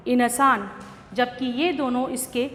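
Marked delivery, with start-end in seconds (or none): 0.1-0.7 इनसान said with a full in, in-saan; इनसान spoken as in plus saan; wrong pronunciation. Shown as a demonstration. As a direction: demo of the mistake, इनसान with a separate न. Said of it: "गलत उच्चारण हैं".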